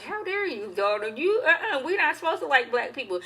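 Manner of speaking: high, mock-scandalized scolding; a hammed-up mother scolding her daughter; mock outraged mother. Mother scolds daughter for liking Black people, mock outrage. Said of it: "she was like".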